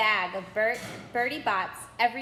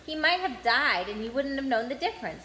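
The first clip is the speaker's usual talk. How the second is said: disgusted; 2 semitones higher than usual. Acted. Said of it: "said Ron in disgust".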